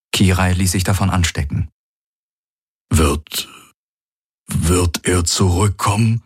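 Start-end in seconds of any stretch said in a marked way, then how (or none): 2.9-6.2 unsure. Acted. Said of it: "fragte Hox unsicher".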